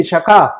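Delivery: شکا ending in a long open aa; alif sound. Shown as a demonstration. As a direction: let the final alif of شکا ring out. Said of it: "آواز نکل رہی ہے الف کی". (شکا، آخر میں الف کی لمبی آواز)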